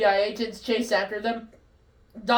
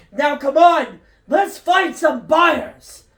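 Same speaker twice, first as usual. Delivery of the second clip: excited; 4 semitones higher, 6 dB louder, slower than usual. Acted. Doc urging Marty on.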